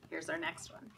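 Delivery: hushed whisper. Real, not acted. Whispered aside to children.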